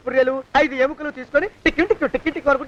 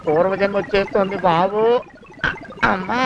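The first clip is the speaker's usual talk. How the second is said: slow fearful wail; 6 semitones lower than usual. Acted. Panicking at past life.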